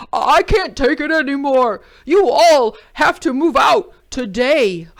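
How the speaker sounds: loud, exasperated demand; fed-up order. A narrator's reading. Jim ordering the animals out, loud fed up. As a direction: lay down the law, exasperated. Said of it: "cried Jim".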